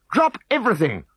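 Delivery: high, loud order drop everything. A narrator's reading. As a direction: call drop everything in one quick falling phrase. Chief's first order.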